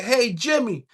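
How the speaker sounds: high-pitched hillbilly call, lightly mocked; white dude calling out. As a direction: call him like a rough country white boy. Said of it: "These white boys, right?".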